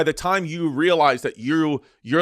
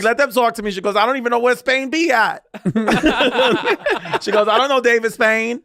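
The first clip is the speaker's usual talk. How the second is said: laughing quote; 7 semitones higher, 3 dB louder than usual. Retold or imitated. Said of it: "she was like".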